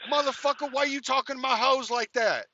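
high-pitched imitation of an irate man; indignant retold challenge; mock angry confrontation. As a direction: confront him in a hammed-up outraged voice. Imitates angry pimp confronting him.

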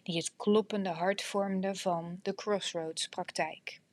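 steady, measured reading voice; audiobook narration. A narrator's reading. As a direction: read it like an audiobook. Reads book excerpt aloud.

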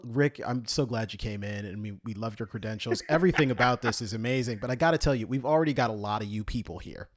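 a hint of a smarmy hiring manager, lightly voiced; mock interviewer. Acts out job interview.

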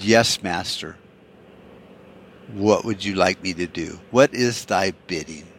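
lightly voiced groveling minion; servile lackey. Republicans bowing to tyrants, mock servile.

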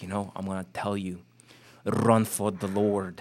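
put-on light German accent, slowing on run for the Lord; a hint of a German preacher giving earnest advice. Quoting Reinhard Bonnke's advice to a young minister, light German accent. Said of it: "in this, like, German accent".

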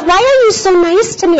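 amazed driver. Retold or imitated. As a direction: ask it in disbelief. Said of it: "And she goes".

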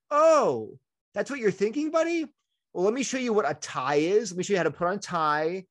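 high, bright-eyed surprise then gentle coaxing; surprised dad to child. Retold or imitated. Dad realizing why his son wants to be a girl, high surprised then coaxing. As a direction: pitch way up like a dad who just figured it out. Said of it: "I said".

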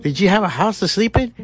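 high needling question; high mocking interrogation. Comic grilling a whiny complainer, high and mocking. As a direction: quiz the whiner in a high mocking voice.

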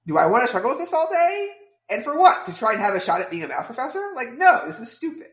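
mock-indignant asking, then dismissive; exasperated self-questioning. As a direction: argue yourself out of it, high on the questions. Voicing his decision to quit math.

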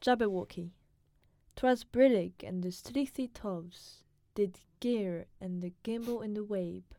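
put-on steady, careful recitation in his British accent; poem reading. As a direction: read the poem out as a cultured foreigner would. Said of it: "You wanna try reading it really quick?".

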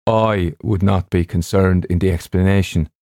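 deliberate, lightly voiced stubborn doctor; ship's doctor, stubborn. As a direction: play the doctor refusing to budge.

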